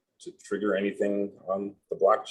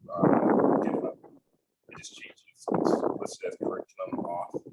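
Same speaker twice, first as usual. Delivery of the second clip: underwater voice. Real, not acted. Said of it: "it sounds like you're underwater".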